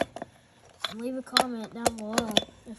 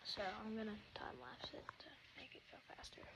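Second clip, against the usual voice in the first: whispering; 17 dB quieter, faster than usual. Real, not acted. Aside to camera, whispered.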